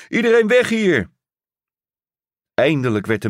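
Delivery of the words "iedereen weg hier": a man warns the crowd, shouting. Acted. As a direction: yell the warning out. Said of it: "riep een man".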